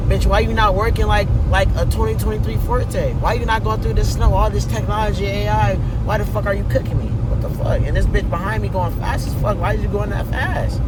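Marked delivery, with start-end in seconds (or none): 0.1-8.7 louder, exasperated scolding of the car; frustrated scolding. Real, not acted. Yelling at his car.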